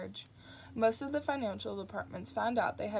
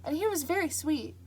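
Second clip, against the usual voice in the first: wistfully; 8 semitones higher, 6 dB louder than usual. Acted. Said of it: "said Mary Hodges wistfully".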